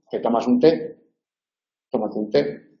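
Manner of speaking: té said with clear stress, rising. Shown as a demonstration. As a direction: lean on té as a stressed noun. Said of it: "el sustantivo es tónico".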